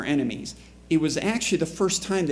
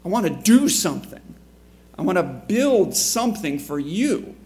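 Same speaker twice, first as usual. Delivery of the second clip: eager, raised and louder; 4 semitones higher, 4 dB louder than usual. Retold or imitated. Peter eagerly offers to build for Jesus, excited. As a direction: burst out with keen enthusiasm. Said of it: "and the reaction is".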